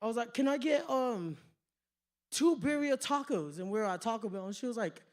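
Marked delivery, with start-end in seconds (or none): 0.3-3.6 put-on British accent, higher at the start. Joker ordering tacos to amuse his girlfriend, British accent. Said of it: "hear me do a British accent".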